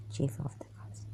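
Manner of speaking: very soft whispered repeat; barely audible whisper; faint whisper. Shown as a demonstration. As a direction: breathe it out almost silently. Repeating a phrase even softer.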